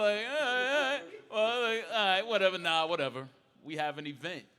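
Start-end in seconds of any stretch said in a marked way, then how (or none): 0.0-3.3 high, loud acted-out agreement; worked-up reaction. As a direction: act out being loudly worked up, voice pitched way up. Acting out his reaction to introduction.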